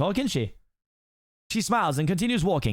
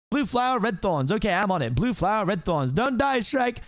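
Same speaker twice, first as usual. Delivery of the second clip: high, worried, reciting to himself; eager frantic donkey; 6 semitones higher than usual. Acted. Donkey rushing to save his friend, frantic and high. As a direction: repeat the errand anxiously, pitched up.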